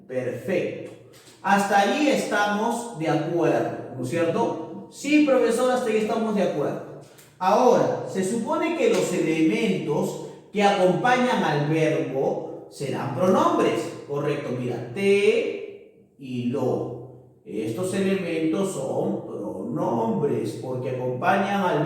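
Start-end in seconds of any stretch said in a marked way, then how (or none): 4.9-7.0 quick, higher pupil voice saying yes; student agreeing. Acted. Pupil agreeing with the profesor, quick and higher. 14.9-17.1 "te y lo" spoken very slowly, each word held; slow emphasis on te and lo. Shown as a demonstration. Teacher to class, slowly naming "te y lo".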